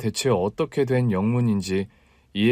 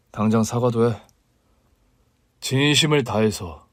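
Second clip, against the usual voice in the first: low command. Acted. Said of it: "낮게 깔린 목소리로 명령하듯".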